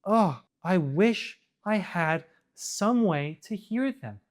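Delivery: slow, dopey mock of a naive character; slow, airheaded imitation, lightly voiced; mocking clueless voice. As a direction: parody her as hopelessly clueless. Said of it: "How could you see them talking and go".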